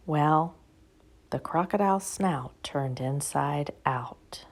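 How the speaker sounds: soft, slow whisper; whispered story narration; hushed storytelling. A narrator's reading. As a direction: lean in and whisper the silly part. Narrator whispers funny details.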